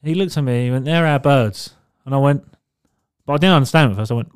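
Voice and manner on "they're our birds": put-on a rough go at a Scouse accent; attempted Scouse accent. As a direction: imitate a Liverpool bloke's Scouse accent, roughly. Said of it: "I can't do the accent".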